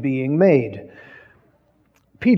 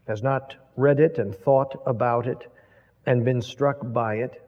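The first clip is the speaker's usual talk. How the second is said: closing prayer; 2 semitones lower than usual. Acted. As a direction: pray reverently to the Father.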